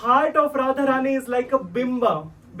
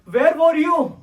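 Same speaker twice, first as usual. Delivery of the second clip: scolding friends; 3 semitones higher than usual. Retold or imitated. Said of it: "And they were so, angry".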